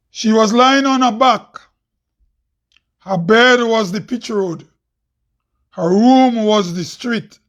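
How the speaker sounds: measured spoken-word verse; deliberate, declaimed poem lines; poem recital. Acted. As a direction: deliver each line on its own, then pause.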